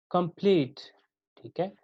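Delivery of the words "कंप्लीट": कंप्लीट with the stress on प्लीट; कंप्लीट, leaning on its last syllable; iambic stress. Shown as a demonstration. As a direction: say कंप्लीट as weak first syllable, strong second. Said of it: "तो ये iambic pattern है".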